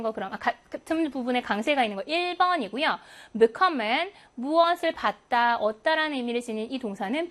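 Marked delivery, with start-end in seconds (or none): 3.4-4.1 "bekommen" stressed on "kom"; light "be", strong second syllable in "bekommen"; stress after prefix. Shown as a demonstration. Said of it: "비분리전철 다음에 강세가 옵니다".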